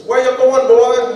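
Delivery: put-on loud, high old father calling out; stern grandfather. Grandfather demanding where his son is going. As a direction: bark it at your son. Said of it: "He says to my, my father".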